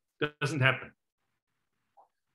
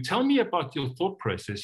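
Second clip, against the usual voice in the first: softer; 3 semitones higher than usual. Shown as a demonstration. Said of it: "lands a bit softer".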